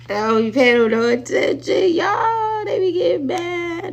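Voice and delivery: high, loud laughing shout. Real, not acted. Laughing high shout about the haters to her viewers.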